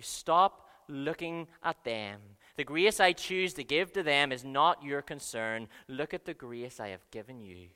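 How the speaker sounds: God gently redirecting the listener. Retold or imitated. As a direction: stop them gently, like a loving father. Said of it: "he would gently say to you".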